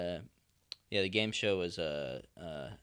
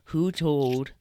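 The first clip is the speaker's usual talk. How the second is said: villain voice; slower than usual. Retold or imitated. Quoting VeggieTales villain.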